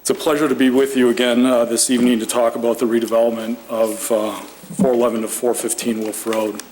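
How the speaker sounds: hoarse voice. Real, not acted. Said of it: "I'm losing my voice".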